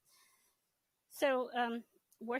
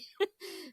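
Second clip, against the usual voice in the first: a short, airless high laugh; breathy laugh; 13 semitones higher, 5 dB louder than usual. Real, not acted. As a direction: chuckle at the awkward moment. Laughs after agreeing reluctantly.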